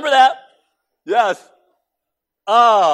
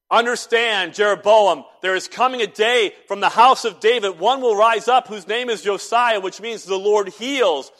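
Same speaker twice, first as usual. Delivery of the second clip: loud, raised, ringing declaration; prophetic proclamation; 4 semitones higher, 6 dB louder than usual. Acted. Man of God warning Jeroboam at the altar, loud proclamation. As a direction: proclaim it like a prophet interrupting a service. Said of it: "he makes a proclamation and a prophecy".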